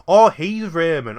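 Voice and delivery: surprised. Real, not acted. Cutscene reveals Raymond.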